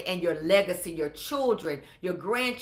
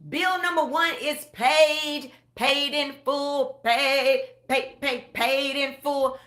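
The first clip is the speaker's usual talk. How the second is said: triumphant declaration; 4 semitones higher, 3 dB louder, slower than usual. Pretend. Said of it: "But now we're saying".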